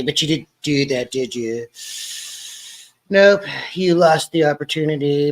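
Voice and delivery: a light, barely shifted Trump impression. Vlogger tries his Trump impression on the livestream, lightly boastful. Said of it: "Trying to do my Trump impression".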